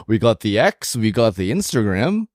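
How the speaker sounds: put-on Canadian accent. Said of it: "in your best Canadian accent".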